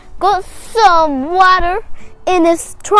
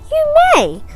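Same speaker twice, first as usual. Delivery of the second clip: higher, singsong kindly permission; kind hippo; 12 semitones higher than usual. Acted. Kind hippo lets elephant into the water, high and sweet. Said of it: "And the kind, nice hippo said".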